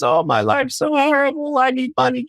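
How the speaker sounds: mock missionary. Mocking missionaries' horrible stories.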